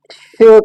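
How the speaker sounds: "श" as a hushing sh; teacher's emphasized "श"; sound demonstration. Shown as a demonstration. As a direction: isolate the sound "श" for learners. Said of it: "का sound produce कर रहा है".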